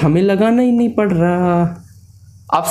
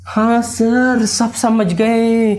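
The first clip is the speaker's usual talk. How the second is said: slow, breathy pupils' reply, lightly put on; mock student voice answering sir; voicing the students; 2 semitones higher, much slower than usual. Teacher voices the class answering, slow and a little out of breath. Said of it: "सांस फूल रही है क्या आपकी?".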